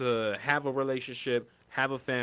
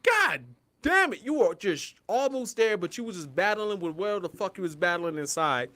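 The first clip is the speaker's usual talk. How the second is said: exasperated plea; 5 semitones higher than usual. Retold or imitated. Quoted scolding of ex.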